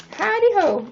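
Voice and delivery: high sing-song howdy ho; playful high hello; jokey greeting. Pretend. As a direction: greet like a cartoon cowboy.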